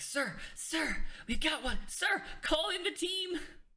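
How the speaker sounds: very high, panicky, panicked shouting. Voicing a guard heard up the hallway: panicked voice. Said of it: "a panicked voice".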